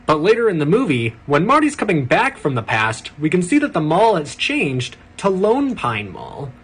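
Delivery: breathless "did you know" narrator; trivia video narrator. Pretend. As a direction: sell the trivia as a revelation.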